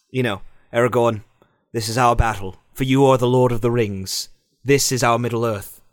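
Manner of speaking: low, solemn elf addressing his comrade; Legolas. Acted. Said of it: "Legolas goes up to, to, um, to Aragorn and he says".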